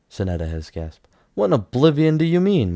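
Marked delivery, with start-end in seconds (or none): 1.3-2.7 a father's alarmed cry, high and loud; horrified shout. A narrator's reading. Father cries out at news his daughter died, loud and horrified. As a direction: shout it out in horror. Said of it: "Munthin cried".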